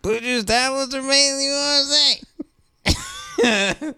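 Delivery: high voice straining not to laugh; trying not to laugh. Real, not acted. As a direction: hold back laughter mid read.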